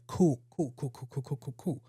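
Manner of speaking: awkward mumbled cool, cool. Retold or imitated. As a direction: brush it off awkwardly, fading away. Awkward elevator repeated cool.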